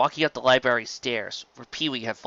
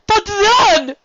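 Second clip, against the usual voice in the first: much higher, louder theatrical duke voice; over-the-top friendly serpent duke; flamboyant sea serpent; 9 dB louder than usual. Acted. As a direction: gush like a warm, showy nobleman. Serpent resumes story.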